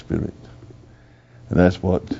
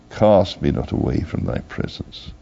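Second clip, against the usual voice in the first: "Cast me not away from thy presence" repeated lower, a hushed echo of the plea; 5 semitones lower than usual. Acted. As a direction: let the plea sink lower the second time.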